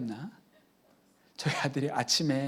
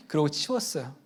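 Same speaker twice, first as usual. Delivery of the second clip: ordinary talk, nothing marked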